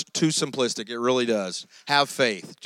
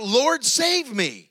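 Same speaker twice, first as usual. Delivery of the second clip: slow, raised cry for rescue; cried out; 6 semitones higher, much slower than usual. Retold or imitated. A sinking man crying out for help, slow and higher. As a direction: Peter sinking, crying out to be saved. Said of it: "he cried out".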